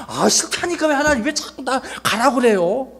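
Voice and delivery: high-pitched, whining protest; acted refusal. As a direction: push back at God in a high voice. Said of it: "모세는 자꾸 거절해요". (높은 목소리로 투덜대며 거절)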